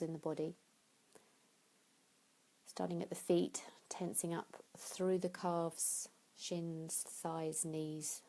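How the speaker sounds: unhurried meditation guidance with long pauses; guided relaxation. Acted. Yoga teacher guiding listeners into tension and release, guided relaxation. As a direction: talk them gently through each step, leaving room to breathe.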